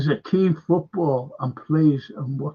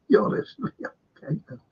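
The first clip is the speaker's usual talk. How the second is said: higher mock reply, trailing off; imitating him; 8 semitones higher, 4 dB quieter than usual. Retelling his reply to me, lightly voiced. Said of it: "He said to me".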